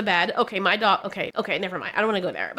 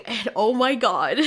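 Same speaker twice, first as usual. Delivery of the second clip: laughing. Real, not acted. Laughing at scary scene.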